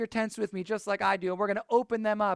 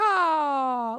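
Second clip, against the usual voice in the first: yeehaw; 6 semitones higher, 4 dB louder than usual. Shown as a demonstration. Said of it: "give me a big".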